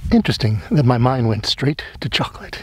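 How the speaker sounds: whispering. Real, not acted. Amused aside to self.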